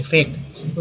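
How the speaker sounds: फेक्ट breathed out without voice; whispered echo. Shown as a demonstration. Teacher whispers फेक्ट as an echo. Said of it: "repeats word part softly".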